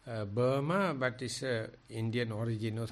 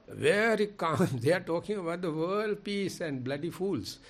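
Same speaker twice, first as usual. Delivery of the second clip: sarcastic mockery; 5 semitones higher than usual. Real, not acted. Mocking politicians and media.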